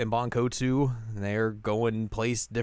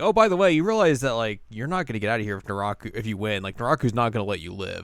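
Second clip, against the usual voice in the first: voiced Inuyasha; faster than usual. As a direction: rattle off a smug warning.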